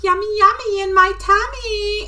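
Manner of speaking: imitating her parrot, half laughing; baby bird voice. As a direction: chirp it like a greedy little bird eating broccoli. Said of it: "he's like".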